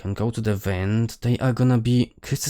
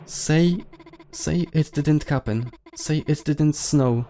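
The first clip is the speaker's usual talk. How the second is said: high, halting plea; acted fearful begging, voice pitched up; desperate pleading; 5 semitones higher than usual. Character pleads for a denial.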